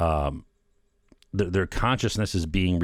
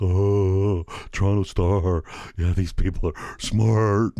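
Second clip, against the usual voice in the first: slow, louder, gushing fake awe at the paper; mock gullible admiration; 2 semitones higher, 4 dB louder, slower than usual. Mocking a naive Toronto Star reader, sarcastic gush. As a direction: play a dupe who swallows the Toronto Star whole. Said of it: "I'm not just like".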